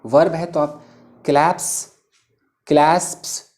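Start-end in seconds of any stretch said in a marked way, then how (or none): 2.7-3.5 "क्लैस्प्स" said klasps, with the s cluster worked through; teacher struggling with "क्लैस्प्स"; careful pronunciation. Shown as a demonstration. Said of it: "मतलब थोड़ा pronounce करना मुश्किल हो रहा है".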